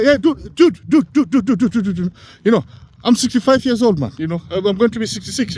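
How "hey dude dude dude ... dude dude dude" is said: high, insistent repeated dude; exasperated call for his attention; mock impatient calling out dude dude dude; calling out to the guy. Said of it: "I tell the, the guy".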